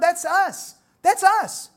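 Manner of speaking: loud, high preacher's cry; rising shout. Real, not acted. Preacher to his church, shouting it home.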